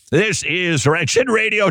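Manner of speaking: drawn-out Minnesota vowels, Fargo style; a hammed-up Minnesota accent. Shown as a demonstration. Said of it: "I slip into a Minnesota accent".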